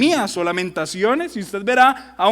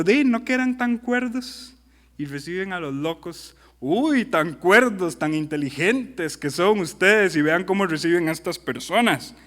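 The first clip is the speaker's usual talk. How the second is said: sarcastic; 3 semitones lower than usual. Acted. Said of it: "¿vieron el sarcasmo?".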